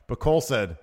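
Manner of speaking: normal talking voice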